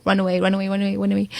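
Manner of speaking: soft urgent warning. Acted. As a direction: murmur it like a ghostly warning. Inner voice urging escape.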